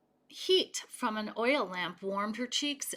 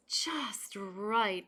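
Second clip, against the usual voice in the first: sleepy whisper. Acted. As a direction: breathe it out like falling asleep. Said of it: "Aluki murmured".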